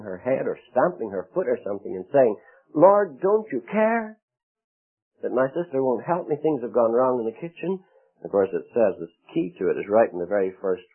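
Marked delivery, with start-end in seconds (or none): 2.7-7.8 Martha fussing at the Lord, indignant; indignant complaint. Acted. Martha complains angrily to the Lord about her sister.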